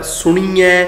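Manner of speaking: ਸੁਣੀਐ as su-nee-ai; long ee mistake. Shown as a demonstration. Teacher points to the wrong form, ਸੁਣੀਐ with long ee. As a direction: hold the middle ee in ਸੁਣੀਐ. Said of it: "ਕੀ ਗਲਤ ਉਚਾਰਨ ਕਰਦੇ ਹਾਂ".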